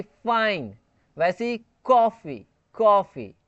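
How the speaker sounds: फाइन and कॉफी said with a hissing English f; friction f. Shown as a demonstration. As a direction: clear f friction in each word. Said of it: "friction based अगर आपको बोलना है तो बोलो". (फाइन, कॉफी में f घर्षण वाला)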